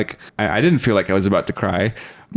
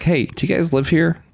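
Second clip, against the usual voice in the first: lightly voiced higher lady asking; jogger lady's question; 7 semitones higher than usual. Lady jogger hailing two boys, a lightly higher voice. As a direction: play the jogger lady calling out. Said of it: "she's like".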